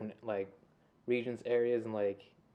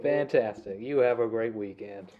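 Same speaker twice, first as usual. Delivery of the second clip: lightly put-on business phone voice; formal phone voice. Ending a pretend client call, formal business phone voice. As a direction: sign off like a polite office call. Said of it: "your formal business or phone voice".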